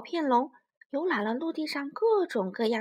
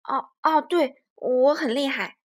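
awkward bluster; 7 dB louder than usual. Acted. T-rex awkwardly agreeing.

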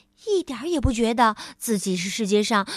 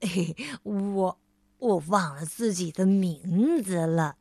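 抱歉地笑; 5 semitones lower than usual. Acted. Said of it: "他抱歉地笑着解释说".

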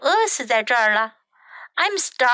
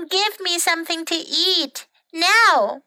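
high, insistent storybook demand; hungry bird ordering a friend about; demanding shout; 6 semitones higher than usual. A narrator's reading. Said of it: "shouted Bird".

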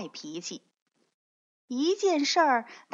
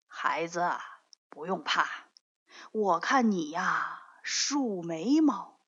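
put-on a gentle old sage soothing a frightened child; old immortal; 2 semitones lower than usual. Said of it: "这个老头儿对不高兴说".

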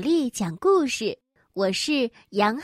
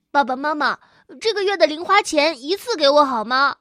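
eager little kangaroo; 2 semitones higher, 6 dB louder, faster than usual. Acted. Kangaroo begs parents.

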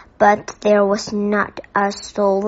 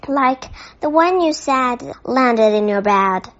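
confused; 3 semitones higher, 3 dB louder than usual. Acted. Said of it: "sounding rather confused".

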